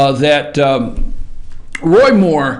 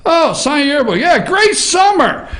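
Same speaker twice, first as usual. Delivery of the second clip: mock girl voice; 6 semitones higher than usual. Imitating the yearbook girl.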